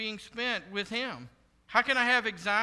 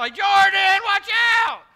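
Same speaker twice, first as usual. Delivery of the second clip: shrill, high, loud shouted yell; 11 semitones higher, 12 dB louder than usual. Showing how to warn someone stepping into traffic: yelling a warning. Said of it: "I'm gonna yell".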